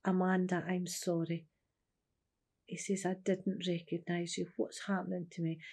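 quiet sorrow. Retold or imitated. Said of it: "he just started crying".

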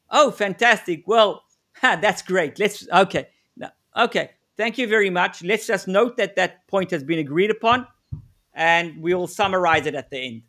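mock-eager, gushing thanks with a laugh; overexcited negotiator. Shown as a demonstration. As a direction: play the too-keen negotiator who just got a yes. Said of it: "Don't show too much excitement".

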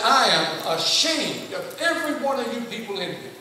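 stern rebuke. Retold or imitated. Preacher retelling how he scolded the chatting adult class, stern. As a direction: shame them into silence.

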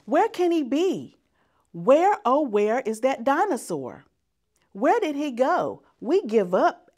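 mock calling out. Children pretend they can't find the dinosaur, mock calling. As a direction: call out as if truly lost.

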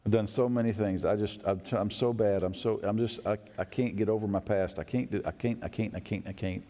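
a broken voice that trails away; despairing sinner. Pretend. Preacher voicing a guilty listener, despairing and fading.

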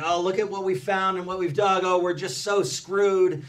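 high-pitched imitation of an agitated colleague; mock alarm. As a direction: imitate someone fretting out loud, dragging out the end. Retold colleague marching around alarmed.

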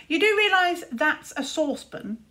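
scornful big brother, incredulous. Acted. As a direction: point out the obvious scornfully. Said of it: "said Luther".

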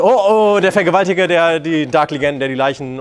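mock alarmed woman. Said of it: "dann denkt sie sich".

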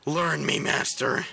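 mock eager plea. Pleading to game master.

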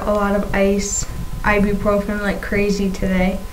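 talking around a swollen tongue; lisping with a fresh tongue piercing; tongue piercing speech. Real, not acted. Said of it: "having a hard time talking today".

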